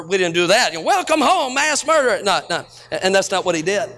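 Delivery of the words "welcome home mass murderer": a touch higher, jokey mock welcome; mock greeting. Joking about the church bulletin, mock cheerful. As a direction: toss it off as an absurd joke. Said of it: "we didn't say mass murderer".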